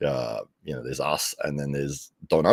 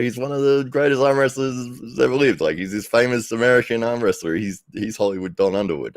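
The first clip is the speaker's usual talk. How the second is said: incredulous friend; 8 semitones higher, 4 dB louder than usual. Retold or imitated. Tim explains who Don is.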